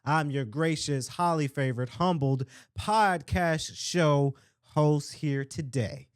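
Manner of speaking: slow, drawn-out announcer welcome; show announcer. Real, not acted. Podcast host introducing himself to listeners, announcing slowly. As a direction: stretch out the show's title like an emcee.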